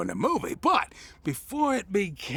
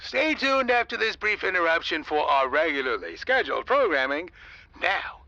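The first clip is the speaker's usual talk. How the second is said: radio DJ patter. Acted. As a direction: charm the listeners over the air. On-air DJ announcement.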